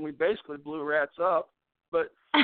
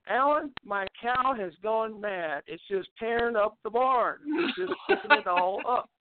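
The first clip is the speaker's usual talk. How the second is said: lightly voiced neighbor lady, pitched higher and slow; flustered neighbor lady; 4 semitones higher, slower than usual. Neighbor lady bursts in to tell the family her cow went mad, in a lightly voiced, higher, slow plea.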